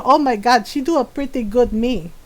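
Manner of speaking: put-on accented Filipino mom telling off her son; imitating scolding mom. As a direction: mimic a mother's stern, deliberate threat. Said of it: "she do my voice very well".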